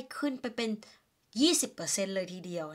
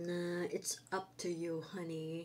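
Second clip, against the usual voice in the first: softer, very slow husband; lazy husband; 2 semitones lower, 4 dB quieter, much slower than usual. Acted. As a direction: drag it out, tossing it back. Husband answers in couple skit. (สามีตอบยืดยาดเบาๆ)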